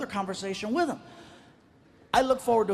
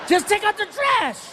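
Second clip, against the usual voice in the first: high, loud fed-up order; exasperated dad; 11 semitones higher, 4 dB louder than usual. Retold or imitated. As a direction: snap it at a stalling son.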